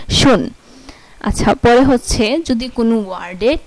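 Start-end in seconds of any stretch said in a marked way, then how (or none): 0.1-0.5 "শুন" with sch as sh; German word schön. Shown as a demonstration. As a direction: read the example. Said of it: "এসসিএইচ O N".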